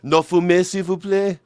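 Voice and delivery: high, lilting mock French plea; polite French request. Host playing France against Germany, politely pleading. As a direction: ask sweetly, high-voiced and courteous. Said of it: "Germany and France".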